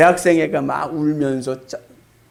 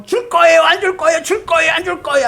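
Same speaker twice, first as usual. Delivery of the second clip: put-on high, loud pleading child's whine; 떼쓰는 기도; 13 semitones higher, 6 dB louder than usual. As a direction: nag God like a whiny kid. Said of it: "하면서". (떼쓰듯 높고 큰 소리로 조르기)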